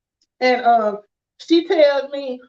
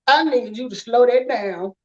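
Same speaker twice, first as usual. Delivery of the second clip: put-on slow southern black accent, lower; 3 semitones lower than usual. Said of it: "I'm from Alabama in the country".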